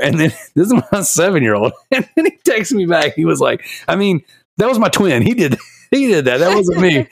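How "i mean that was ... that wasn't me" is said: put-on sheepish kid excuse. Son texting an excuse, voiced.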